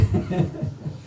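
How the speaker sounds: short breathy laugh; brief laugh at oneself; rueful chuckle. Real, not acted. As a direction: chuckle at your own blunder. Laughs at own retold regret.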